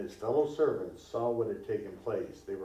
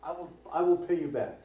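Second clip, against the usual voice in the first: raised, stumbling plea; a servant begging for more time; 5 semitones higher than usual. Acted. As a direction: repeat the promise, begging. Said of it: "But he's begging".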